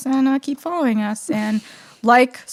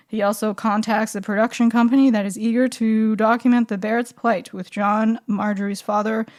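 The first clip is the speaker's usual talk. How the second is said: monotone voice. Shown as a demonstration. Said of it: "enjoy it with my monotone voice".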